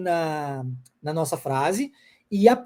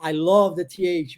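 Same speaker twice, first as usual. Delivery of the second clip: slow model phrase; 4 semitones lower, slower than usual. Shown as a demonstration. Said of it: "de agora em diante".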